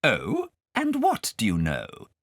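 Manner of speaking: slow, sugary governess; honey over a threat; very sweetly. Acted. Governess prodding Kay, slow and falsely sweet. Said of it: "said the governess very sweetly".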